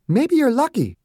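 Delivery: no-nonsense bedside manner; doctor insisting on treating a patient; brisk Margaret. A narrator's reading. Margaret to Perry.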